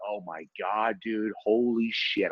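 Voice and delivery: low, slow disbelief; drawn-out aghast aside; stunned. Retold or imitated. Neighbour alarmed by the kid's reply, stunned.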